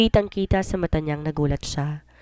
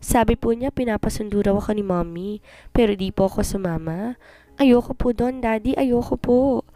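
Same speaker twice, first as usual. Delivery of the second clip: put-on crying child; 5 semitones higher than usual. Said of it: "umiiyak na sabi ni Ashley".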